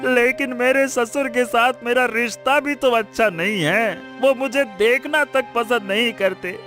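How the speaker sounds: mildly tearful pleading; weeping. Acted. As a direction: beg an elder for help through tears. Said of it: "क्यों रो रहे हो".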